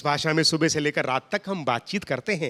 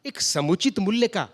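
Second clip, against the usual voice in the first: formal pure hindi; 3 semitones lower than usual. Retold or imitated. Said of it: "हमने उससे कहा".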